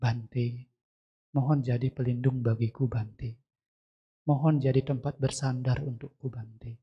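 subdued, low-pitched entreaty; understated humble supplication; retold plea. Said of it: "memohon perlindungan".

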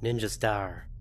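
unplanned accent on Ninja Star; accidental accent. Real, not acted. Player names a found weapon, accidental accent. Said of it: "Why'd I say it with an accent?".

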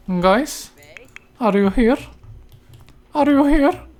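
high calling out. Real, not acted. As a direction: call out into the empty house. Calling guests who don't come. (yüksek sesle seslenme)

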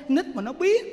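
normal talking voice

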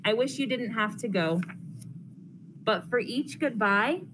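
lively storybook read-aloud for a class; reading to children. Acted. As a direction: read it brightly to the kids, pausing between pages. Reads picture book to class.

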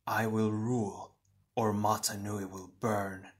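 understated, hushed menace; lightly voiced dark twin, deliberate; sinister shadow double. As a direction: quietly threaten your other self.

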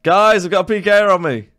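high, loud alert to teammates; urgent callout. Real, not acted. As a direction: raise the alarm to the squad. Calls teammates for help.

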